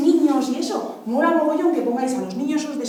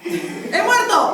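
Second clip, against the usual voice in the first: laughing; 5 semitones higher, much slower than usual. Pretend. Playing dead dummy, laughing.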